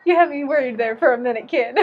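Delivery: chuckling through the words; teacher laughing at a kid's joke; laughing relief. Retold or imitated.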